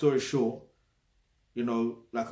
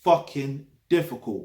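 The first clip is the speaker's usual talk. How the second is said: FUCKING DIFFICULT punched louder; emphatic stress; 6 dB louder than usual. Shown as a demonstration. Man spelling out his emphasis to viewers, stressing "fucking difficult". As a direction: hit both words of "fucking difficult" hard. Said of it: "Emphasis on the word".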